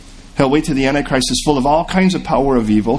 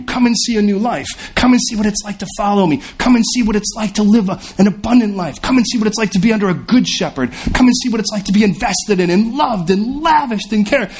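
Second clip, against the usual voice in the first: lightly voiced God, higher and pleading; God's gentle invitation; 8 semitones higher than usual. Preacher voicing God inviting the lost, higher and earnest.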